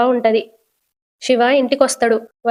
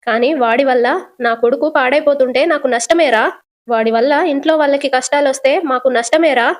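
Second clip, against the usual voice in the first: mother scolding her son, a touch weepy; crying; 2 semitones higher than usual. Acted. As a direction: reproach her son through light tears. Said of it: "వాళ్ళమ్మ ఏడుస్తూ".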